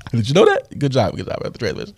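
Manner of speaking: mock congratulations to a brother; acted sarcastic jab. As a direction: needle him with fake praise. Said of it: "I'm being sarcastic and whatnot".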